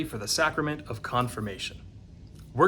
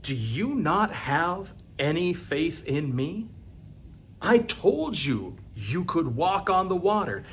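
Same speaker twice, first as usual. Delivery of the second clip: gentle reproach; 2 semitones higher, slower than usual. Acted. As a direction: chide a friend who lost faith. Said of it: "And he says".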